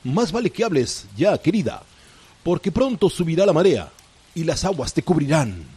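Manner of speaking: villainous pirate captain. Acted. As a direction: gloat like a sly pirate captain. Pirate captain threatens the princess.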